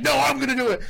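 high-pitched, imitated insistence; acted-out eager protest; mock insistent. Acts out arguing over who does it.

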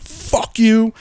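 high-pitched mock yell, no real volume; retold scream. Cursing back at the dog owner, retold mock scream. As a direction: imitate yourself screaming back, pitched right up. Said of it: "I started screaming. I was like".

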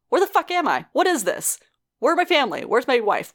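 mock freak-out, firing question after question; panicked robot man. Acting out robot's panicked outburst.

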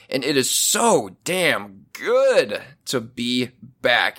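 slow, low, relieved sincerity; heartfelt. Real, not acted. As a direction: savour being back, slowly. Relieved return to the mic.

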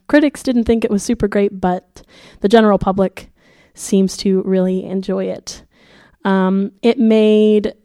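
muffled voice with a sore throat; sick voice. Real, not acted. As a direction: talk like your throat is swollen and sore. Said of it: "if it sounds like I have cotton balls in my mouth".

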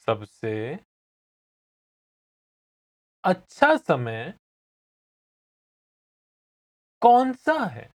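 slow language-lesson model with long gaps; feed it to the learner chunk by chunk; slow repeat. Shown as a demonstration. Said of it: "I'll say it again slowly".

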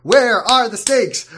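slow, insistent repeated complaint; mock-outraged repeated question; exasperated. Real, not acted. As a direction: hammer the question home, slowly. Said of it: "repeating complaint mockingly".

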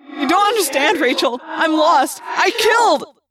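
distraught. Acted. Tobias breaks down to Rachel.

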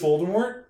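Voldemort with the T pronounced, high and loud; sounded final T. Shown as a demonstration. Telling readers they were wrong, Voldemort with sounded T. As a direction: end Voldemort on an audible T. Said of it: "the T is silent".

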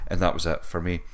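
ordinary talk, nothing marked

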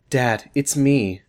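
slow reread of "Dad, it's me" as a full stop; second try. Acted. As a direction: say "Dad, it's me." slowly, closing the quote. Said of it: "Is that okay?".

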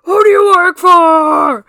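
very loud, high, slow interrogation shout; furious demand. Acted. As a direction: bellow the question at him. Acting Ram interrogating.

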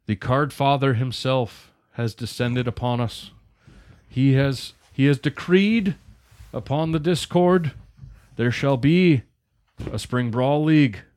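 booming royal decree, drawn out; grand proclamation. Pretend. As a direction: announce it like a herald. Mock proclamation of Card Father decree.

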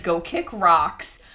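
slow, flat brush-off; dismissive retort. Retold or imitated. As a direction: tell the doctor off, unbothered. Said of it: "I'd be like".

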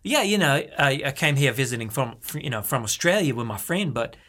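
lightly put-on Aussie visitor; Australian accent. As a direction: chat like a lost Australian tourist. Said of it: "I speak Australian the whole time".

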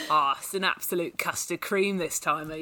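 put-on Cockney accent. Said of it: "Could you?".

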